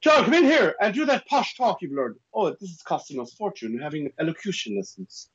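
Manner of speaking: high-pitched voice of a mum; mum showing off. Retold or imitated. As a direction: call him in as mum, high. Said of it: "my mum would go".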